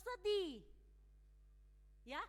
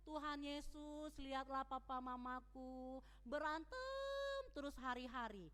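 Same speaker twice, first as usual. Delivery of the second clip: put-on child's prayer; 3 semitones lower, 4 dB quieter than usual. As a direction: plead quietly like a child at prayer. Child praying about fighting parents.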